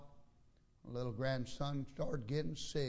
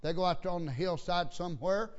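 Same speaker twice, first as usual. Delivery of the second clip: raised, animated preacher voice; lively pulpit delivery, pitched up; preaching; 5 semitones higher, 4 dB louder than usual. Real, not acted. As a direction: preach it out to the congregation.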